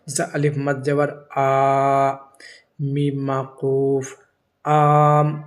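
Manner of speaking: آم spelled out slowly, the آ stretched long; slow teacher's spelling of آم; drawn-out spelling. Shown as a demonstration. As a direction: drag out the آ in آم. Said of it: "آواز تھوڑی سی کھینچ کر پڑھیں گے".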